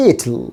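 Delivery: it'll weighted on IT, ending in a weak "l"; stress on first syllable. Shown as a demonstration. Teacher explains primary stress, first syllable stressed. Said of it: "একটু louder sound করতে হবে".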